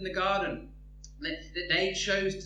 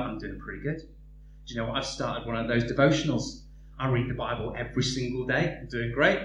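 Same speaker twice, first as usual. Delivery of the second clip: lightly voiced proud believer; 7 semitones lower than usual. Believer answers proudly in story.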